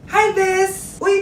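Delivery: ordinary talk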